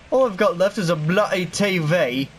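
a light mock British accent on "bloody T V". Gamer jokingly goes British over losing his stuff, light British accent. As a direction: toss off a hint of British, "bloody" said the British way. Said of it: "I'm certainly British all of a sudden".

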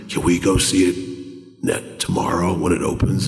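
put-on low, half-whispered kid's request; timid mock whisper; hushed plea. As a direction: imitate a kid asking sheepishly under his breath. Kid sheepishly asking upset grandmother.

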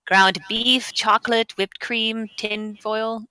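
light put-on German accent. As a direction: read aloud with an attempted German accent. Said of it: "Everybody has to do their best German accent".

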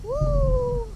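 high, loud whoop of delight; excited whoop. Real, not acted. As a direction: cheer as the fish bites. Catching a fish, exclaims.

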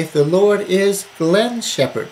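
"Glenn's" drawn out and punched; slow verse with emphatic "Glenn's"; stress on GLENN'S. Shown as a demonstration. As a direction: lean hard on the name "Glenn's". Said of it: "put your name into the verse".

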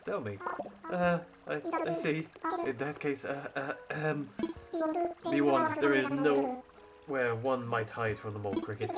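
a lightly voiced stuffy professor owl; hint of a posh museum curator; sophisticated tone. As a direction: read it like a pompous scholar, barely shifted. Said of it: "saying it with a sophisticated accent".

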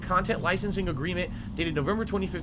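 reading out the email. Real, not acted. Reads Twitch email aloud.

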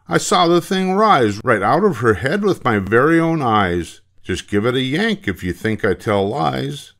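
put-on high, insistent boy's voice; protesting schoolboy. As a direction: swear to it in a high kid's voice. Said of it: "said Butch".

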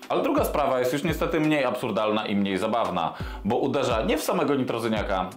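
usual speaking voice

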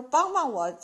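a modest storyteller's mock yell for help; calling for help. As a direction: shout out for help into the walls. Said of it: "她喊呐".

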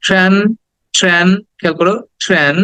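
ট্রান with an "æ" sound, "tran"; vowel demonstration. Shown as a demonstration. Teacher points out the vowel, careful demonstration. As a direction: say ট্রান clipped off as one model syllable. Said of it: "এ, এ sound আছে একটা".

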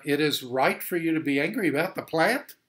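exasperated divine disbelief; God incredulous. Acted. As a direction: scold him as if it's absurd. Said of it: "But God said to Jonah".

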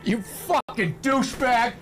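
high, drawn-out imitated yell; retold scream. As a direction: imitate a stranger screaming out the window. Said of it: "somebody was just screaming at somebody".

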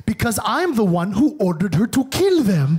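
uncle admitting he gave the orders, blunt; imitating uncle. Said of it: "he just goes".

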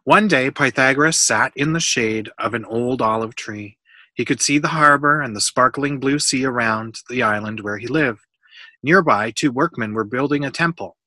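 clear, animated read-aloud; storybook reading. A narrator's reading. Adult reading a Pythagoras book to a child, storybook reading.

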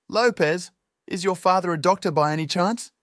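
high and loud, urgent. A narrator's reading. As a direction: press him anxiously. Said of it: "his voice tinged with urgency".

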